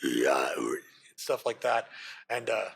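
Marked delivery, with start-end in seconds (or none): 0.0-0.5 very low, growly creature whisper; whispery creature voice. Acted. Creature muttering its command words to the party, whispery and very low. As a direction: rumble out alien words in a raspy whisper. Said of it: "it'd be a whisper to its voice".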